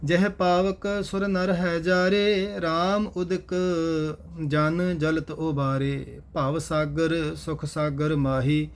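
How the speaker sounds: measured Gurbani chant-reading with drawn-out line endings; scripture recitation. Acted. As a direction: recite each verse slowly and evenly. (ਗੁਰਬਾਣੀ ਦਾ ਸਹਿਜ ਪਾਠ)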